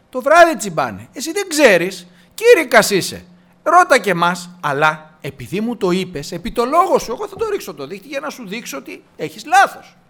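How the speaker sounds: protesting fisherman. Acted. Peter answers the Lord about fishing, protesting loudly. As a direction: push back like someone who knows better. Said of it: "Του λέει".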